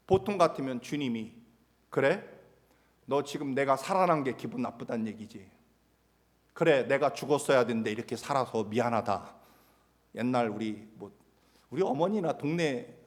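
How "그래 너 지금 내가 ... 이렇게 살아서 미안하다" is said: mildly bitter mock apology; sarcastic. Imagined Jesus sulking at Peter, sarcastic. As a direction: needle him with false sorrow. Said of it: "그렇게 비꼬고 조롱하는".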